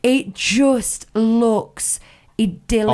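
slow, dreamy admiration. Real, not acted. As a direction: savour the word idyllic. Dreamy praise of restaurant.

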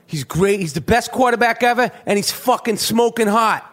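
mock Boston fan voice; put-on Boston accent. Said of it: "That's my Boston accent again".

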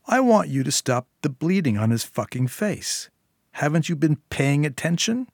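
lightly voiced, impatient demand; exasperated Syl. Syl ordering the nurse to treat the wound, exasperated. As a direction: insist with rising exasperation. Syl snaps back at Julia.

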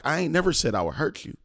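high, quick retold protest; indignant denial. Son denies threatening his father, retold protest.

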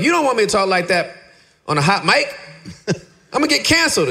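high, fast panicked pleading; panicked protest. Retold or imitated. Pleading with God not to be put on a hot mic. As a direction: plead with God in mock alarm. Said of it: "I'm like".

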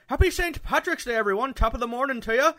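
mock Irish accent, high and loud; hammed-up Irish greeting; a cheerful put-on Irish brogue. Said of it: "I think I have a pretty good Irish accent".

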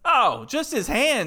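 slow, mock-shocked "oh"; drawn-out fake surprise; sarcastic. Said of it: "I'm being sarcastic".

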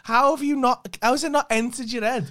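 loud, high, slowed-down exasperated shouting; exasperated rant. Real, not acted. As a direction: vent the frustration at full volume. Partner ranting at girlfriend about lateness.

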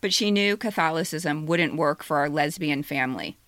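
steady measured reading over music; essay reading. Acted. Author reading her own essay aloud to the audience. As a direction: read it calmly to listeners.

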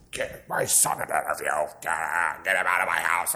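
exaggerated pleading mom voice; hammed-up mom begging; mock desperate mom. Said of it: "She didn't say it like that".

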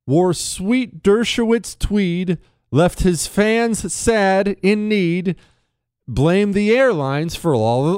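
slow, loud poem reading. Acted. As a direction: read the limerick slowly, building up. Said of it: "I'm gonna read it for you now".

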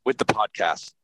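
choppy digital distortion on a car speakerphone; robotic glitchy audio. Real, not acted. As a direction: voice breaking up like a bad call. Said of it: "you are Mister Robot for a minute".

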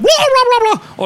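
high loud pained fish babble; screaming in pain. Acted. Fish man shrieks in pain and runs off, high and loud. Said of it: "skriger i smerte".

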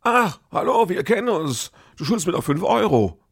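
high, bright mock-sweet hello; sing-song the greeting up high like a sly old acquaintance; chirpy fake-friendly greeting. Tamer greets stranger in pharmacy queue, high sing-song mock friendliness. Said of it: "sagt zu der".

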